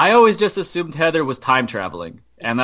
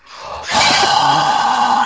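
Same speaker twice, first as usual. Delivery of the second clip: mock gasp; 6 semitones higher, 4 dB louder than usual. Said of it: "Pete the Prius".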